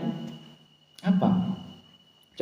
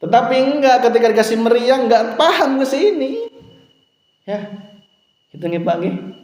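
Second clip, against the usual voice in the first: preaching at full force; 11 semitones higher than usual. Acted. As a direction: urge the congregation to make amends. Preacher raises voice to exhort. (khotbah berapi-api, nada tinggi dan keras)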